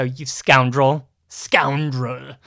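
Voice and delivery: drawn-out playful accusation; mock indignation. Co-host teasing Greg for doing the show without him, mock indignant. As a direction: scold him in jest, stretching the word.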